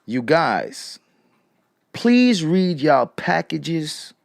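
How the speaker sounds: slow, measured retelling of a reply; quoting slowly, word by word; slow quote. Retold or imitated. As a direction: draw out each word as you quote her. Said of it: "What did Tiffany say?".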